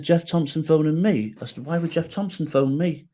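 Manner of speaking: retold disbelief, pitch lifted by the end; puzzled, can't-believe-it questioning; incredulous. Wife says his hero is on the phone, incredulous.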